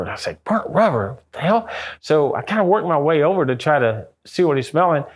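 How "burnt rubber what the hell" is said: higher-pitched retold disbelief; incredulous echo. Storyteller quoting his reply to the investigator's guess, incredulous. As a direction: question it back, baffled, pitch jumping up.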